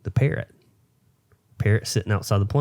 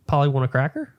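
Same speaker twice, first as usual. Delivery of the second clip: higher, squawky parrot imitation; lightly voiced parrot asking for a cracker; 6 semitones higher, faster than usual. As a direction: play the pet parrot calling out. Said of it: "parrot goes".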